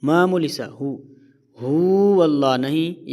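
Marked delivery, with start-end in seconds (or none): 1.6-3.1 هو pulled long and slow, the wrong way; wrong, overlong هو; stretched hu. Shown as a demonstration. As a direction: drag out the هو as the mistake. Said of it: "یہ بڑی غلطی ہے".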